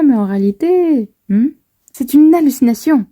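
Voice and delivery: lightly voiced confused Nami; voicing Nami. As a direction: play Nami asking Usopp what happened. Reads character dialogue.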